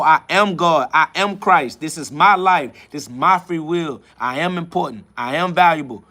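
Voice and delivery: emphatic declarations, each falling at the end; heartfelt battle cry. Real, not acted. Venting to viewers from the soul, a battle cry. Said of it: "the cry that comes from the deepest part of my soul".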